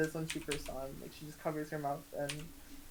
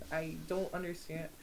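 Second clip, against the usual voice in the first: ordinary talk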